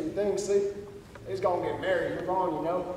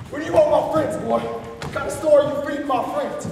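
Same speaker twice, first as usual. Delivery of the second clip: confrontational; 5 semitones higher, 6 dB louder than usual. Acted. Confronting the stranger.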